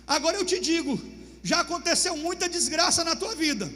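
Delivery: a general scolding his king; stern rebuke. Acted. Joabe repreende o rei. (repreensão firme de Joabe)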